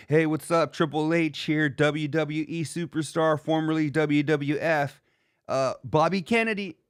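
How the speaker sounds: a hint of a corny impressionist doing Triple H; lightly voiced mock Triple H intro; imitating Rich Davis. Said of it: "Rich Davis, doing Triple H".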